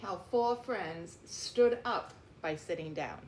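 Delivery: put-on reading a picture book aloud to children; reading the title. A narrator's reading. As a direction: clear storybook title read.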